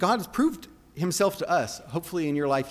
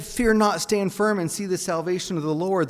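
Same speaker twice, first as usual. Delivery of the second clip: Moses commanding; 4 semitones higher, 4 dB louder than usual. Acted.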